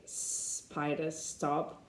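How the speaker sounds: "Spider" and "stop" said slowly and softly, with no E before the S; softly practising clean S clusters; careful S clusters. Shown as a demonstration. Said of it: "so they try and say".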